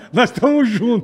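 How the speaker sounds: teasing, laughing as you say it. Real, not acted. (rindo, em tom de brincadeira)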